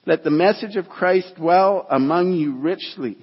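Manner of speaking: measured, emphatic Bible reading; deliberate pulpit reading; scripture reading. Acted. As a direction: read scripture aloud, pausing to weigh each virtue. Reads scripture to congregation.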